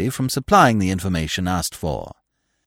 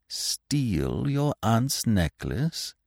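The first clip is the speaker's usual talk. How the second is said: slow, soft and indulgent; a suave gentleman indulging a nervous young man, slow and soft; 6 dB quieter, much slower than usual. Acted. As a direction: humour him gently. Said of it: "he said indulgently".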